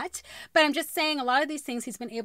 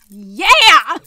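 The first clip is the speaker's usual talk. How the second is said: loud, triumphant cheer; real excited whoop; loud yeah; 2 semitones higher, 17 dB louder than usual. Real, not acted. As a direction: celebrate nailing it. Cheering at end of blooper.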